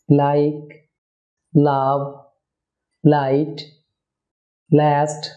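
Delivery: tongue-tip L starting "লাইক, লাভ, লাইট, লাস্ট"; light word-initial L. Shown as a demonstration. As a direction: say each first L thin and clear. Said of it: "লাইট এল হবে".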